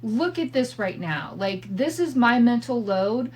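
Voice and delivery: exasperated wife hollering at her husband to listen. Retold or imitated. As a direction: call out to him, fed up and overwhelmed. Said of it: "And I holler out".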